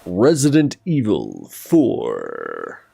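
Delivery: announcer voice. Shown as a demonstration. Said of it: "just let me do my voices".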